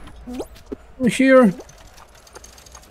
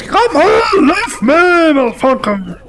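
angry yelling; 4 semitones higher than usual. Real, not acted. Chased by enemy in game.

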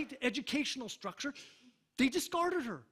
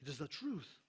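softer, lower "It is the truth" with a falling end on "truth"; quiet repeat; 5 semitones lower, 7 dB quieter than usual. Acted. Preacher to congregation, quietly repeating the truth. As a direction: drop the voice and let "truth" settle down.

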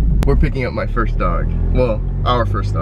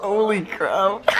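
gushing; 9 semitones higher, slower than usual. Real, not acted. Gushing over puppy.

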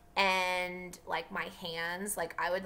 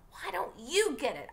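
screaming; 8 semitones higher than usual. Acted. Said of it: "I screamed".

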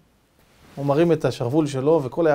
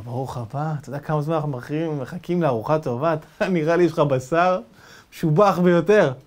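menacing chief. Retold or imitated. Chief welcomes his dinner.

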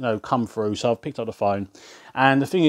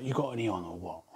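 low, hushed mock come-on; mock flirty; 4 semitones lower, 11 dB quieter than usual. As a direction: murmur it like a cheeky flirt. Retold flirty prank on caller.

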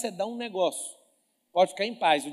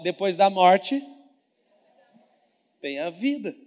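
"Depois da morte" alto e lento; em coro, forte; 8 dB louder, slower than usual. Shown as a demonstration. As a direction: puxe o coro, forte e arrastado. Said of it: "Fala assim, ó". (pregador puxa a frase com a igreja, alto e lento)

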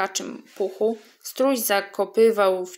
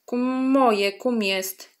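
teeth-grinding frog; 3 semitones higher, slower than usual. Acted. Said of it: "zgrzytała zębami żaba".

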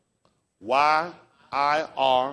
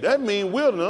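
louder, higher retelling of what he said; retold quote; 8 semitones higher, 7 dB louder, faster than usual. Teacher retelling a student's answer, louder and higher. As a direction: punch it out like you're quoting him. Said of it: "He said".

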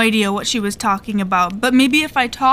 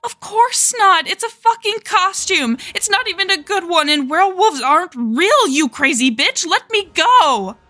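high, tearful panicked yelling; crying panicked shout; 8 semitones higher than usual. Acted. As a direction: scream it through tears. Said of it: "Jackie was crying a little now".

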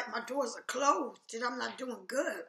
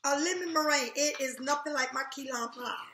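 indignant; 2 semitones higher, 4 dB louder than usual. Real, not acted. Outraged at niece's mistake.

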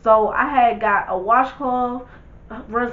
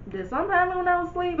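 startled question; 7 semitones higher, 4 dB quieter, much faster than usual. Retold or imitated. Waking to find friend smiling.

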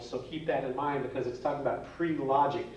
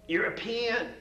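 much higher, a bright, triumphant punchline; 9 semitones higher, slower than usual. Retold or imitated. Teacher delivers the European punchline to a kid's riddle. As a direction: land it like a kid delivering a joke.

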